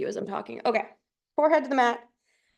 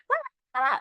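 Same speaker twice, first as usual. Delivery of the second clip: two high, mock dog yaps; playful imitation of barking; imitated dog bark; 4 semitones higher than usual. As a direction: yap like a little pet dog. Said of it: "he's, like, barking at someone".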